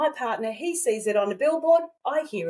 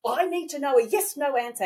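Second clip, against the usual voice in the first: retold frustration; 5 semitones higher than usual. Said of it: "I'm getting angry".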